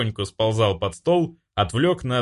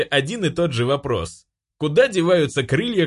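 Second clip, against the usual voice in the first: angel; 7 semitones higher than usual. Acted. Angel voiced in story.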